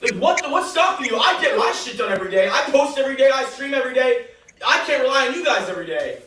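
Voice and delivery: exasperated rant. Real, not acted. Man berates girlfriend in argument.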